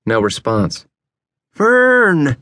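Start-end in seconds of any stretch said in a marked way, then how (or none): 1.5-2.4 high, urgent call of a name; hissed wake-up call, voiced and high; insistent hissed call. A narrator's reading. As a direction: call him urgently, pitch jumping up. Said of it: "he hissed again, this time a little louder".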